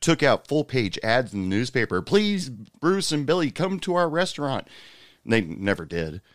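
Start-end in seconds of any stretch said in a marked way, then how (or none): 2.0-4.7 high, drawn-out begging; mock pleading. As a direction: plead slowly in a higher imitating voice. Managers' pleading newspaper ad voiced.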